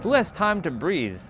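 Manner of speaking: high scoffing mock voice; playing his old dismissive self; mock past self. Past self scoffing at breathing, high mock voice. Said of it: "I used to be like".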